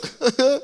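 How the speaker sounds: high, short mock sob; mock tearful sniffle. Husband imitating his crying wife before her money question, mock sniffle. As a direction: sniffle as if pulling out of a crying fit.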